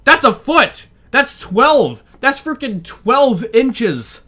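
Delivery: high, stretched-out disbelief; riled up. Real, not acted. Reactor fuming over olives, high and slow. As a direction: hammer home how few olives, slowly. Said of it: "Sorry for getting riled up".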